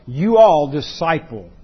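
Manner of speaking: "you all disciple" drawn out slowly, ALL and the middle of DISCIPLE stressed; slow, weighty "you all disciple"; emphasis on disciple as verb. Shown as a demonstration. Preacher showing listeners that disciple is the verb, emphatic. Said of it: "that's where the emphasis is".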